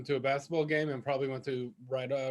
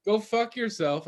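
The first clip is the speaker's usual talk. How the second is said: one meaning; 4 semitones higher than usual. Shown as a demonstration. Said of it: "they can mean".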